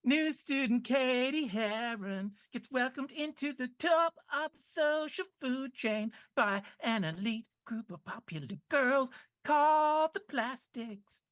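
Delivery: put-on valley girl. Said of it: "Can you do it in a Valley Girl accent".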